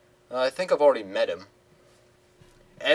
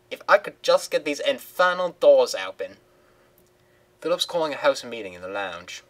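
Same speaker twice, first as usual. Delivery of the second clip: lightly raised hopeful woman's voice; Simone's voice; 2 semitones higher than usual. Acted. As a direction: ask sweetly for an interview. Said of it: "her voice is hard to do".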